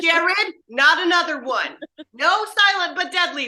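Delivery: mock scolding. Crew to Jared about farting, mock exasperation. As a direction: playfully tell him off across the set.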